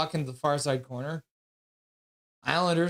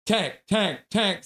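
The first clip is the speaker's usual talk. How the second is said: reading a chat quote; 2 semitones higher, much slower than usual. Retold or imitated. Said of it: "says Cosmic Dragon".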